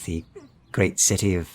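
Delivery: friendly stranger nosing in on the locals; Midlander trader. Acted. GM voices the trader.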